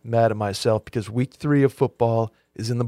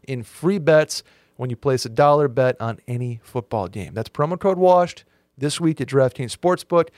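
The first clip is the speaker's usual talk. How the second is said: ad read. Acted. Reads DraftKings ad.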